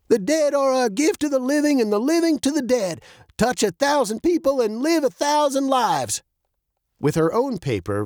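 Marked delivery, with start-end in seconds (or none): 0.1-6.2 put-on high-pitched old man declaiming; reading while writing. A narrator's reading. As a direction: voice the words as they are penned. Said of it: "reading as he wrote".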